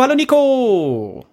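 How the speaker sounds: high, slow welcome call; drawn-out greeting. Real, not acted. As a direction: stretch out the hello. Calling out a greeting.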